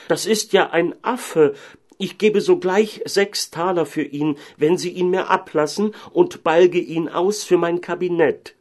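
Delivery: high, excited scholar's outcry; full of amazement. Acted. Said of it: "rief dann voll Verwunderung". (voll Verwunderung rufen)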